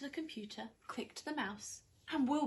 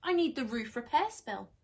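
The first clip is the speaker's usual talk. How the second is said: worried witch; 4 semitones higher, 7 dB louder than usual. Acted. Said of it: "Winnie panics".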